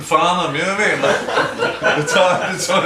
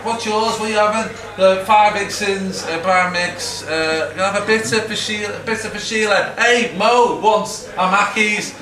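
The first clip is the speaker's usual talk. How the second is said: imitated drinker calling out a round, higher and louder; mock shouting orders across the bar; raised-voice impression of endless beer ordering; pub round order; 6 semitones higher, 5 dB louder than usual. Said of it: "they come on like this all night".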